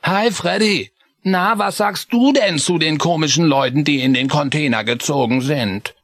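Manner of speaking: put-on high cheerful child greeting; friendly mouse boy; high young mouse Chris. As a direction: bounce up to your friend. Chris voiced.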